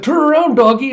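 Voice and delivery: put-on very high, loud childish yell; high shrill command to the dog; urgent shout. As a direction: yell at the dog to turn, fast. Anya pulling the dog around.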